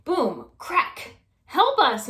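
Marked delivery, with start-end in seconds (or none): 1.5-2.1 loud, high cry for help; calling for help. Acted. Trapped wife calling out for help, loud and high. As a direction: call out for rescue from the trapped room. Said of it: "Missus Watson called".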